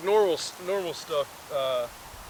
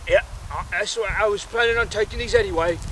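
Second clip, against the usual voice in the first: put-on creature voice, raised and louder; higher, forceful monster reply; monster turtle guy; 6 semitones higher, 6 dB louder, faster than usual. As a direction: answer back as a goblin-like turtle. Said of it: "the monster turtle guy is like".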